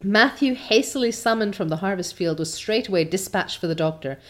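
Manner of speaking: measured, expressive storytelling; story narration. A narrator's reading. Reader telling listeners of Anne's fall, story narration. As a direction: read it like an audiobook narrator. Reads the novel aloud.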